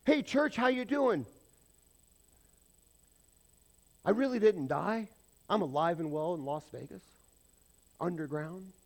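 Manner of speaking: lightly voiced impression of a famous singer, high and loud; a playful hint of the singer greeting the church. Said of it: "Elvis starts talking in Elvis's voice"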